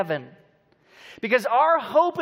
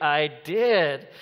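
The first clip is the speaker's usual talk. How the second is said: stubborn wife; 7 semitones lower than usual. Retold or imitated. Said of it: "She's like".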